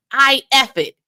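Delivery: put-on Memphis accent. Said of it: "in my best Memphis accent".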